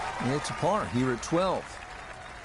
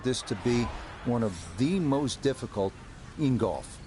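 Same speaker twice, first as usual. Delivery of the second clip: steady broadcast hole preview; golf commentator. Acted. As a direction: informative TV golf narration.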